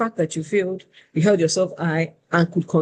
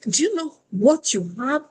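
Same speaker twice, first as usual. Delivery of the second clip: much higher, pressing imitation of her boss voice; indignant recruiter; 8 semitones higher than usual. Recruiter pushing the candidate to value her CV, indignant. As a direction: lean in, demand an answer. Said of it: "She now goes like".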